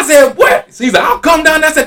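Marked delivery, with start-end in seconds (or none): 0.4-0.7 high, loud mock outrage; indignant comeback. Retold reaction to being cursed at. 1.0-1.7 high-pitched shouted threat, imitated; getting loud. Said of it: "He's still getting loud".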